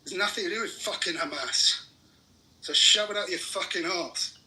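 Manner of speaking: real anger, forceful swearing rant; angry. Real, not acted. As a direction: demand answers in righteous anger. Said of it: "You can hear the anger in my fucking voice".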